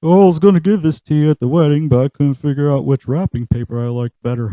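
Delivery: a hint of an apologetic Texan dad; Hank Hill. Hank dropping off a late gift to Bobby, lightly voiced.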